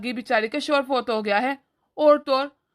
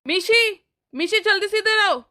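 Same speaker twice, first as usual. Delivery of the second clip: angry call; 5 semitones higher than usual. Acted. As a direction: call her over sharply, annoyed. Brother angrily calls wife over.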